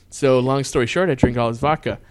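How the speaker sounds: normal talking voice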